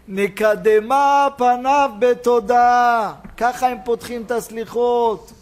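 high sermon voice, stretching the quoted verse; impassioned preaching. Acted. Preacher explaining how penitential prayers open, impassioned preaching.

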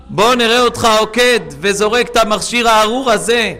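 booming divine rebuke. Acted. God rebuking the listener about the device, loud and commanding. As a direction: thunder it down like a stern God. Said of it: "אומר הקדוש ברוך הוא".

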